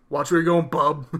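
low, quick mock tough guy; gruff Wolverine. Wolverine warning a man who bumped him, mock tough-guy voice. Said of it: "What accent did that man have?".

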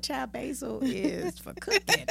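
sassy. Retold or imitated. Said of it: "I'm like".

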